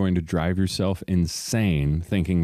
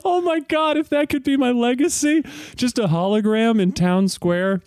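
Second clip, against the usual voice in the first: excited; 3 dB louder than usual. Real, not acted. Laughing exclaim legacy.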